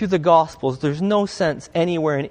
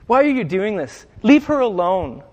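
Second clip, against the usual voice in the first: firm, raised, protective rebuke; protective big brother; 4 semitones higher, 4 dB louder than usual. Retold or imitated. Jesus defending the woman like a big brother, firm and protective. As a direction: step in beside her and shield her. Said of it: "like a big brother to her".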